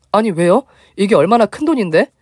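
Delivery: high, startled protest; can't believe what she's hearing; shocked disbelief. Retold or imitated. Narrator's shocked reply to member.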